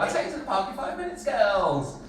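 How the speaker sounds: quick high promise, dropping on the last word; imitation of Granddad. Granddad trying to avoid going to the park, put-on promise. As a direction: sing it out as a stalling granddad. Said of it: "They're trying to avoid going to the park".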